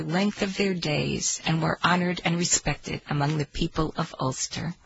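storyteller reading aloud; story narration. Acted. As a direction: tell it like an old tale.

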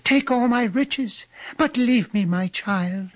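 very high, slow pleading; tearful begging.

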